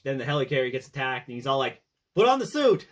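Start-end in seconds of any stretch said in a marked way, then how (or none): 2.1-2.9 mock shout. Mock Cap shouting order.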